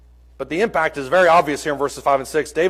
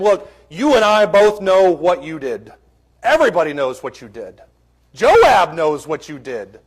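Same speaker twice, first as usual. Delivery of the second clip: blunt accusation; 4 dB louder than usual. Retold or imitated. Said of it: "could have very easily just walked into this situation and said to him".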